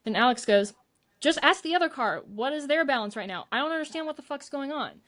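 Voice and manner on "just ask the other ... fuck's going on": exasperated energy. Retold or imitated. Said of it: "that's the energy he gave".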